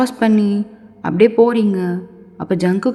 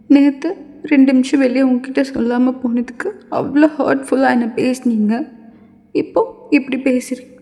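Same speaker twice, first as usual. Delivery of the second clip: higher-pitched, upset complaint; hurt student girl; 3 semitones higher than usual. Acted. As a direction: pour out hurt in a raised voice. (மனம் புண்பட்ட பெண்ணின் உயர்ந்த குரல்)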